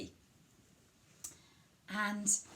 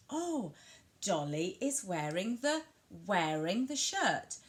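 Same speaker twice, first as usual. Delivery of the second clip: WEARING drawn out after an exclaimed "Oh"; stress on WEARING; slower than usual. Shown as a demonstration. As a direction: comment to a child, leaning on wearing. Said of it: "you'd emphasise the word wearing".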